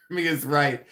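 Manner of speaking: whispered aside; whispered, giggling aside. Real, not acted. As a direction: whisper it with a laugh.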